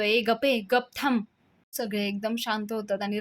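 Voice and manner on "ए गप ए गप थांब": angry hush. Acted. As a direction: shut them up sharply. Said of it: "मग राजा चिडतो आणि म्हणतो". (चिडून, दटावत)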